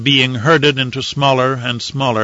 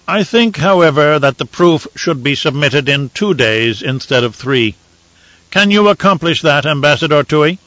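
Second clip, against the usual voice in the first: a lightly raised, measured imperial voice; Emperor; 3 semitones higher than usual. Acted. Emperor to the ambassadors, calm and lordly. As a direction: weigh it coolly from the throne.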